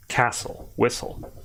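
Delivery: castle and whistle whispered, S stretched, no T; hissed S, silent T. Shown as a demonstration. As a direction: breathe castle and whistle through the S. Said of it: "more emphasis on the S sound".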